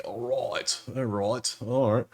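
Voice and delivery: repeated lines in a put-on Australian accent. Bettor after spotting Scooble, put-on Australian accent. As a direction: settle down from the whoop, still Australian. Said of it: "I went Australian all of a sudden".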